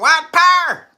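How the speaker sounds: high, loud hammed-up slogan yell; mock scream. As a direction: scream it like a rally. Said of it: "start screaming".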